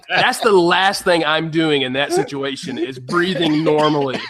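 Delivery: amused, slowed, a laugh breaking through on normally. Real, not acted. Passenger cracking up at the flight safety line, laughing. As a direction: chuckle through it as you say normally.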